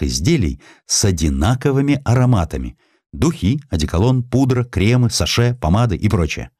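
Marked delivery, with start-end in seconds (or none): none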